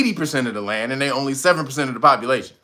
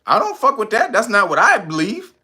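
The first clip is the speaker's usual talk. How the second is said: mock president; 5 semitones higher than usual. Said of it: "president was like".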